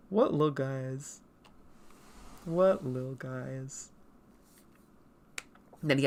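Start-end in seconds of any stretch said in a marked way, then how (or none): 2.4-3.9 much slower, lingering repeat; drawn out. Real, not acted. Admiring old drawings of little characters, drawn-out delivery. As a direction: linger on each word.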